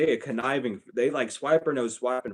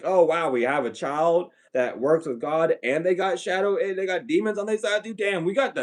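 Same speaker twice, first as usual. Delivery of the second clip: mock family voice; 5 semitones higher than usual.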